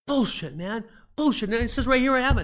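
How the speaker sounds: high, loud indignant protest; outraged player. Retold or imitated. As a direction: shout at the GM that you do have it.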